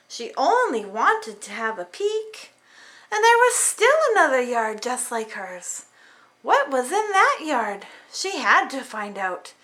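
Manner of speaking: lively storybook reading; reading to children. A narrator's reading. Parent reading a picture book to kids, lively. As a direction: read it like bedtime for little ones.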